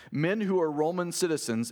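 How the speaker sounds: emphasize "Roman citizens" as a claim; stress on Roman citizens. A narrator's reading. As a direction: lean firmly on "Roman citizens". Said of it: "emphasis on we are Roman citizens".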